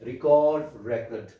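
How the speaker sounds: record record, first stressed on the first syllable, then on the second; very slow: REcord then reCORD; stress contrast. Shown as a demonstration. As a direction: show how shifting the stress in record changes noun to verb. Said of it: "stress pattern in English changes the meaning".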